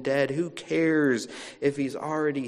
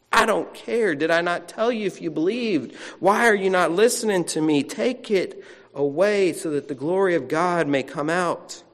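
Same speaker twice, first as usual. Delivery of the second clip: quick, heated and louder; fed-up Jesus snapping at the doubters; angry Jesus; 3 semitones higher, 3 dB louder than usual. Acted. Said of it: "You can hear it in how quickly he's speaking".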